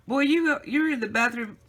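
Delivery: high, loud mock yell of the old man; retold screaming. Old man yelling that she hid in the bathroom, mock angry yell. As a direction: fire it back like a fed-up husband. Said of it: "He's screaming".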